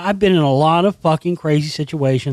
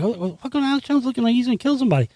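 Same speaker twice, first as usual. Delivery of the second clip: retold disbelief; 6 semitones higher, 5 dB quieter, much faster than usual. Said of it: "I'm like".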